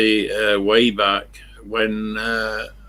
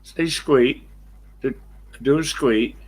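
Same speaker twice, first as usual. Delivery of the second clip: raised, coaxing pet-talk voice; coaxing the dog; 4 semitones higher than usual. Real, not acted. Owner urging his dog to squeak, higher coaxing voice.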